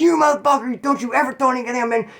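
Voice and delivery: retold angry scolding. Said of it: "She got so mad".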